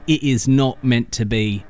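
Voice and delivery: weak put-on Australian accent; a bad attempt at an Australian accent; terrible Australian accent. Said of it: "that was a terrible Australian accent".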